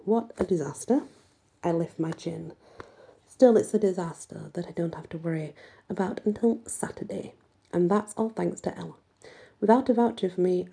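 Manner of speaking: expressive first-person storytelling; story narration. A narrator's reading. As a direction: read the chapter aloud as the heroine telling it. Reads a first-person novel aloud.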